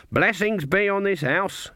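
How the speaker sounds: high, slow, dutiful witch's greeting; perfunctory blessing. A narrator's reading. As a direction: toss off the blessing as a routine formality. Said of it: "Granny said perfunctorily".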